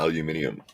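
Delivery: "aluminium" in five syllables, ending -ee-um; British pronunciation. Shown as a demonstration. British guest repeating his word, "aluminium" as al-yoo-MIN-ee-um. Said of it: "we say, um".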